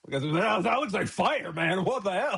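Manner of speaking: high, puzzled mock yokel; baffled ancient Hebrew. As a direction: play a confused ancient onlooker seeing fire. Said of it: "so they're just like".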